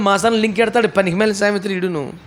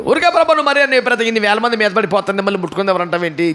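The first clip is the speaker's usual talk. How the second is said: protesting disciple. Retold or imitated.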